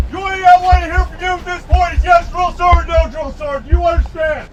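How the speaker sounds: drill sergeant. Real, not acted. Drill sergeant addressing new recruits.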